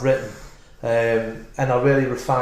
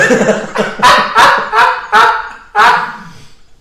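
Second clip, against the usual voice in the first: long, high, loud laugh; high burst of laughter; 8 dB louder than usual. Real, not acted. Laughs at own dog joke.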